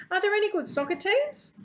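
high, eager question; very excited. A narrator's reading. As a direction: ask it bursting with excitement. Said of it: "so excited I can hardly get".

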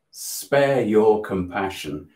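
slow, only lightly voiced ancient tree; a hint of an old oak speaking, drawn out; booming old voice. The chained oak rebuffing the speaker's pity, slow and solemn. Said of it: "booming, incredibly old, but very strong voice".

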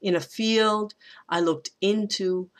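light "In a", then hold "field"; anapest. Shown as a demonstration. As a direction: stress on FIELD and the IN of "into". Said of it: "it sounds like an anapest".

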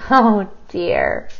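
ordinary delivery

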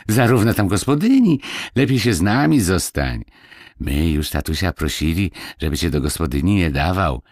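lightly voiced, eager country lad; coaxing village boy. Boy urges Marysia to stay with them, lightly coaxing. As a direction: coax her to stay, boyishly.

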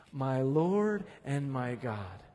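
low, slow, softened; reverent recitation. Shown as a demonstration. Preacher has the congregation say it with him, slow hushed reverence. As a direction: lead it solemnly and unhurriedly. Leads congregation in repeating the words.

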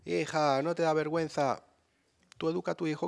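a touch of a reproachful neighbour; nosy neighbour. Retold or imitated. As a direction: neighbour upstairs shaming the mother, mild reproach. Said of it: "las voces de vecinas arriba".

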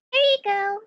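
high, pointed "there you go"; curt handoff. Acted. Handing the rude captain his croissant, curt and pointed. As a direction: hand it over with cold politeness. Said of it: "just like".

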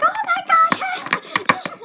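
very high, loud, drawn-out squeal; mock panic. Whole class as slime sticks in girl's hair, screeching mock panic. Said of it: "The class went to panic".

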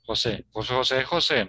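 "José" said as "ho-SEH"; Spanish J. Shown as a demonstration. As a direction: repeat "José" with a throaty H. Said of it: "entonces decimos José".

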